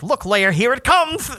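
high tiny action-figure voice; tiny Ben Mendelsohn. Retold or imitated. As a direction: squeak it like a toy villain. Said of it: "be like".

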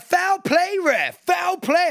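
high, mock yell of an American fan. Mocking an American football fan, high mock yell. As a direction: ham up a clueless shouting fan. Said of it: "He's like".

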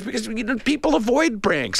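imitating a caller at wits' end, high; high-pitched retold exasperation; losing it. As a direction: plead it high, as if losing patience. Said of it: "losing it".

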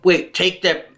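low, slow crude Aussie flirt; Australian accent. Pretend. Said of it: "Is that how he said it?".

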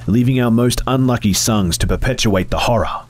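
whispered, rising into voice; phantom whisper. Acted. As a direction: hush that swells into a mournful lament. Phantom explains curse.

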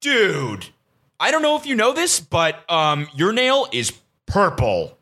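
a hint of a cautious friend breaking news; lightly voiced concerned buddy; buddy's voice. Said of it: "one of my buddies goes".

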